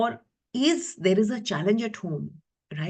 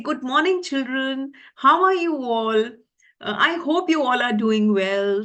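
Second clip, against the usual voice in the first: cheerful teacher greeting; 4 semitones higher, 4 dB louder than usual. Shown as a demonstration. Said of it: "when I say".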